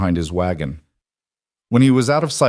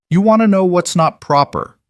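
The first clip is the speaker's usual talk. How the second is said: louder, higher and bitter; heated outburst; 11 semitones higher, 6 dB louder than usual. A narrator's reading. Woman scorned by gossip lashes back, loud and bitter. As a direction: Clara throws the word back, rising hot.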